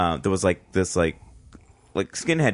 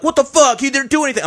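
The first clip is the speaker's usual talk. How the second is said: higher, louder, outraged protest; outraged shout; 6 dB louder than usual. Retold or imitated. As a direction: yell it in disbelief. Friend protesting to bouncers.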